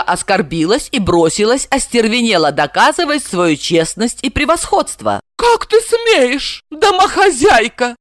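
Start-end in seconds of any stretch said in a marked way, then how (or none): 5.4-7.9 high, slow outraged yell. A narrator's reading. Blonde yelling at the housewife. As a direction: scream the insult. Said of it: "завопила она".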